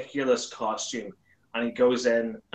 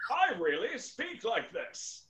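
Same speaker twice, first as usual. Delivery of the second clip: slow, higher-pitched announcer parody; 8 semitones higher, 5 dB quieter, slower than usual. Acted. Claiming it is his real voice, in slow announcer boom. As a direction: stretch every word like a show voice-over. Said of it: "How did you learn to do that voice?".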